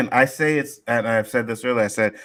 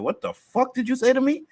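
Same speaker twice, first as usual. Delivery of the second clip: retold freak-out in a higher pitch; 13 semitones higher than usual. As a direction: act out being shocked and offended, pitched high. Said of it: "Yo, I freaked".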